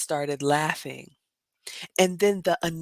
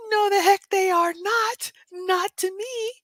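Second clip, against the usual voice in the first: high, emphatic refusal; indignant; 14 semitones higher than usual. Real, not acted. Answering Bostonians about rats, indignant. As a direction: put your foot down.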